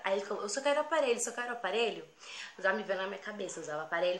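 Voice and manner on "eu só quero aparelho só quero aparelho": higher, repeated demand; insistent mugger. Retold or imitated. Robber to panicking girl, insistent demand. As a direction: act out the robber pressing his demand.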